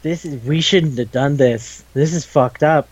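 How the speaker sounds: slow, mock-horrified realization; understated dawning horror, slowly voiced. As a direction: act aghast, dragging the words out. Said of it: "that horrified moment where".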